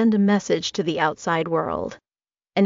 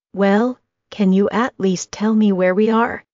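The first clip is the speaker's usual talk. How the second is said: desperate asking; 3 semitones higher, 5 dB louder than usual. A narrator's reading. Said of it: "getting desperate now".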